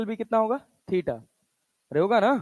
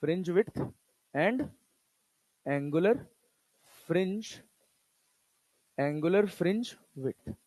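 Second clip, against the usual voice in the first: slow dictation; 7 dB quieter, much slower than usual. Shown as a demonstration. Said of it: "सुनना".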